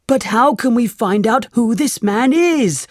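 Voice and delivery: a hint of a nervous young robber asking his boss; lightly voiced anxious thief; thief's question. A narrator's reading. A worried thief asks.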